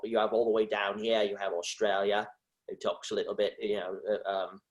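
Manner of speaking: Australian accent sliding into Cockney; attempted Australian accent gone Cockney. Shown as a demonstration. Trying an Australian accent unrehearsed, slipping into Cockney. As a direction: aim Australian, land lightly on Cockney. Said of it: "that's more Cockney".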